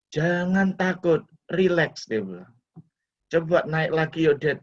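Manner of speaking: a hint of a cheerful son coaxing; son reassuring. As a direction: son coaxing his scared father back on the ride. Son reassuring his father.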